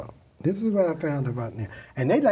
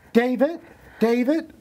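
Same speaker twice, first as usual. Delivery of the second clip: calling out; 9 semitones higher, 6 dB louder than usual. Retold or imitated. Receptionist calls her boss out.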